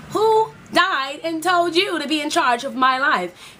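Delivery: slow, indignant retort; sassy comeback. Pretend. To a meddling friend, a slow sassy comeback. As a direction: push back on a meddling friend. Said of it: "That's what you should be thinking".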